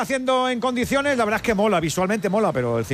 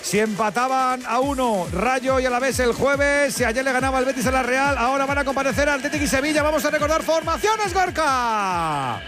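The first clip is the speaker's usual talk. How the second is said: upbeat, lifted sports-radio host voice; radio announcer; 11 semitones higher than usual. Acted. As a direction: announce it like a live sports show. Radio host links to football.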